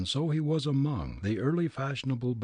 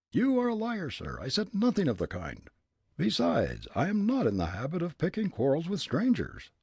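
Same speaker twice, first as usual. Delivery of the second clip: very high, puffed-up pompous voice; pompous man; 8 semitones higher than usual. Acted. Ventriloquized pompous man offering to kick the old gent. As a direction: play a pompous bystander, thrown.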